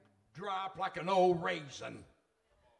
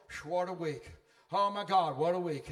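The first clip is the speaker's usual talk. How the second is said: weary flesh; 3 semitones lower than usual. Acted. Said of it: "my flesh is going".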